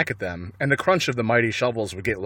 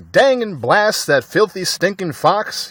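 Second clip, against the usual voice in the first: loud, slow grumbling curse; angry cursing; 7 semitones higher, 5 dB louder than usual. A narrator's reading. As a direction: spit out the curse. Boggis cursing the fox.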